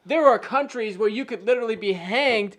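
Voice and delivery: loud angry rant; going off on them, loud and heated. Real, not acted. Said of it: "I got a little heated there".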